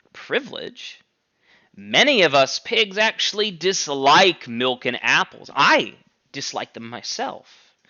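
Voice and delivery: lightly voiced pig, slow and coaxing; persuasive Squealer. Squealer justifying the pigs to the animals, slow coaxing. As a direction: talk them round, slow and smooth.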